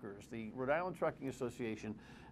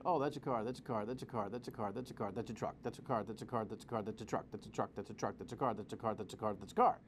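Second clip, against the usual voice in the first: low, mechanical droning of a toll decoder; mock machine voice; 4 semitones lower, faster than usual. Host mimicking the toll scanner counting cars, droning. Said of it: "a decoder saying".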